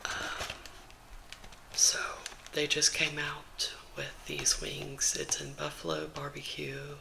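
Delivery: gentle whispered chat to viewers; ASMR whisper. Real, not acted. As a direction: whisper it all, close to the mic. ASMR whisper vlog throughout.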